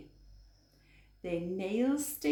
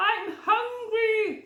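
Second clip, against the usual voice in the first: growled; 13 semitones higher, 6 dB louder than usual. Acted. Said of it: "growled the bear".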